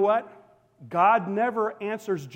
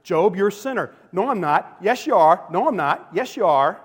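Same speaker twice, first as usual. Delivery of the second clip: louder childish back-and-forth, a hint of bickering boys; playground squabble; 6 dB louder than usual. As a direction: trade jabs like kids on the playground. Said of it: "like a bunch of boys on the playground".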